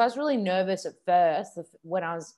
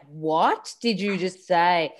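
mock bewildered question; 3 dB louder, slower than usual. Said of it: "And you're like".

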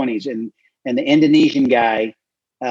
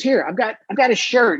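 1 offering help; 9 semitones higher than usual. Retold or imitated. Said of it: "And Joe says".

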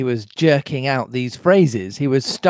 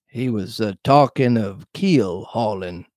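lower, hesitant answer; cowed sailor Morgan; 4 semitones lower than usual. Acted. Morgan explaining to Long John, hesitant. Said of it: "answered Morgan".

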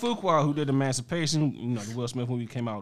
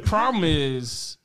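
laughing; 3 semitones higher, 4 dB louder, much slower than usual. Real, not acted. Laughing, slowed.

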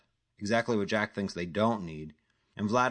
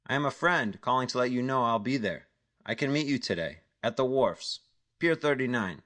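a touch higher, cool stranger on the phone; lightly voiced phone caller; 4 semitones higher than usual. Stranger on the phone answering Jack, guarded caller voice. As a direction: play the unknown caller, guarded.

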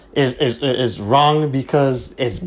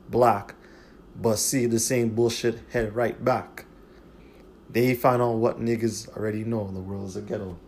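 softer, measured recital of rap verse; reciting lyrics; 3 semitones lower, 8 dB quieter than usual. Acted. Host quoting a late rapper's ghetto lyrics, softer recital. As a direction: quote the bars quietly, like spoken verse.

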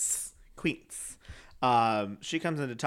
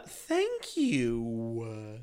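mock thank you; 3 semitones lower than usual.

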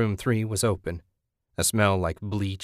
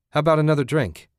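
raised cheerful call across bar; loud call; 7 semitones higher, 5 dB louder, faster than usual. Acted. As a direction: call out for another round. Jack calls for drinks.

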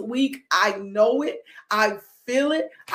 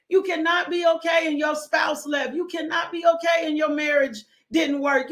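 preaching shout; 3 semitones higher than usual. Real, not acted. Preacher shouting to the congregation about pain. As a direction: hammer each line home to the congregation.

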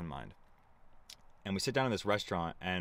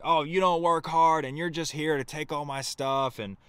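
raised, higher imitation of a furious host; hammed-up yelling, partly toned down; retelling her outburst in a half-yelled rant; mock screaming rant; 5 semitones higher than usual. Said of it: "She starts screaming like".

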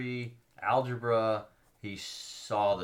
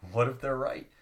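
laughing quote; 4 semitones higher, 4 dB louder than usual. Retold or imitated. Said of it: "And the Irish newspaper is like".

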